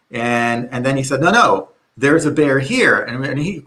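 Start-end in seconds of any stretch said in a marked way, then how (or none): 1.2-3.0 mildly urgent retold warning; insist, with a touch of alarm; imitating a friend who means it now. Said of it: "hear in his sound that something's wrong".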